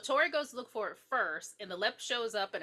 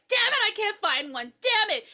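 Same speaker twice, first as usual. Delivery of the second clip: higher, louder exasperated swearing; frustrated cursing; 10 semitones higher, 7 dB louder than usual. Retold or imitated. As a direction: curse at not finding it. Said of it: "and she's like".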